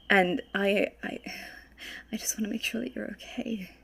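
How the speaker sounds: gentle reassurance. Acted. Player voices Ivor comforting Wallace.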